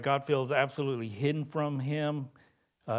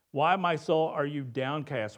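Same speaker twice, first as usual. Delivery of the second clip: louder, lifted question that rouses the soul; bold challenge; 3 dB louder than usual. Acted. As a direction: call out to your own soul to wake it up. Psalm reread as bold self-address.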